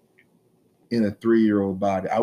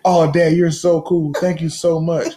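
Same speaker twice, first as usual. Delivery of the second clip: imitated gushing kid; 5 semitones higher, 4 dB louder than usual. Kid thanking dad the next day, mock gushing. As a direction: gush like a delighted kid, hammed up.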